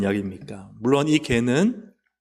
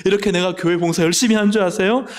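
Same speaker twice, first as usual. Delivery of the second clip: mock angry complaint; 6 semitones higher than usual. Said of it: "예수님께 화를 내요".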